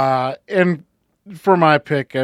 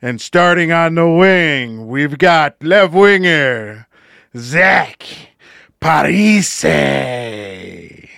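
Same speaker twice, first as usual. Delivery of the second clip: slow drawn-out arena announcer; a hint of a hockey announcer; slower than usual. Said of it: "My hockey announcer voice is not very good".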